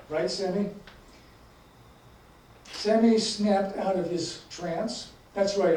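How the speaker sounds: deliberate, emphatic book reading with voiced dialogue; measured author's reading, pausing between phrases; story narration. A narrator's reading. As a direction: read the story aloud, leaning into the dialogue. Reads a story aloud to audience.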